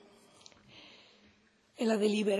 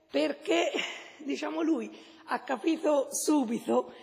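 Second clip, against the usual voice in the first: laughing; 3 semitones higher, 4 dB louder than usual. Real, not acted. Laughs mid-speech.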